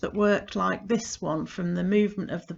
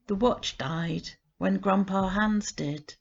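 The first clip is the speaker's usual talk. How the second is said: poem reading. Acted. Reading a grandpa poem to listeners, gentle and measured. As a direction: read the poem to listeners, unhurried. Reads her poem aloud.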